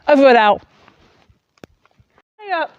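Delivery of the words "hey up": high, soft squeaky tree voice, possessive; a tiny tree warning people off; voicing the tree. Wife speaks as her tree, high squeaky and soft.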